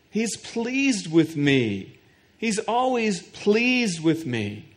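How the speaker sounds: slow, savored assurance; slow and deliberate, savoring the words. Real, not acted. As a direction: let each word sink in slowly.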